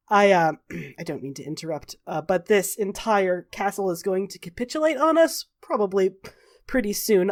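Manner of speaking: soft, hesitant throat-clearing politeness; delicately interrupting. Acted. Raven Queen interrupting the grieving party, delicately hesitant. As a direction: interrupt delicately, slightly softened. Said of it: "clears her throat a little delicately, and she says".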